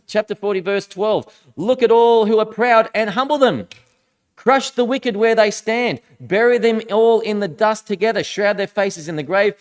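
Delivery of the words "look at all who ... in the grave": raised, forceful voice of a challenging God; berating God. Acted. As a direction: berate him as God, punching each command. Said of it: "he continues berating him".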